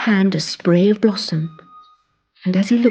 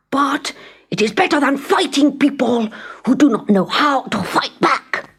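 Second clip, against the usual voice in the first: grumbling prince; 5 semitones higher than usual. Acted. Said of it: "he mumbled".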